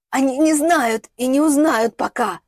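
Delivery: slow, loud, high choked retort; strained croak. A narrator's reading. Woman held by the neck defies him, slow strained croak. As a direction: force it out through a squeezed throat. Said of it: "прохрипела Стелла".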